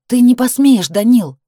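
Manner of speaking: loud high cry of his name; shout. A narrator's reading. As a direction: shout it at him, no longer pleading.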